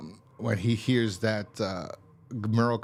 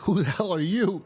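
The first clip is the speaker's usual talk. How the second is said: raised voice, surprised; higher mock question; 8 semitones higher, 3 dB louder than usual. Voicing the survivors meeting Carl, higher. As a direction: lift the pitch on the retort. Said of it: "And it's just like".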